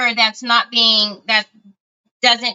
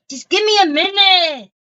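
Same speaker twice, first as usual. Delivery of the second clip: high, playful mock-whiny plea; mock pleading; 8 semitones higher than usual. Host stalls viewers while finding something, in a high mock plea. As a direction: repeat it as a high-pitched, hammed-up plea.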